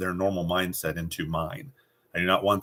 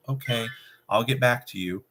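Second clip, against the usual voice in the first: overly polite, higher voice letting them off; 5 semitones higher than usual. Shown as a demonstration. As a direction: sound accommodating and meek. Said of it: "do not be polite and go".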